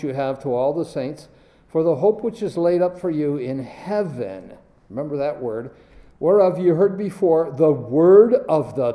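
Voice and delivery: reading aloud, leaning on key words; stressed scripture reading. Shown as a demonstration. Preacher reading Colossians to the class, stressing key words. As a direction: read the verses hitting the important words. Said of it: "I want you to listen as I stress certain words".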